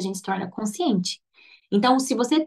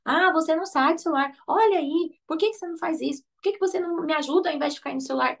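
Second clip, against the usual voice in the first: higher mock scolding, speeding up at the end; nagging parent; 6 semitones higher, faster than usual. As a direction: rattle off complaints at the kid. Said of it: "a gente não vai mais falar assim".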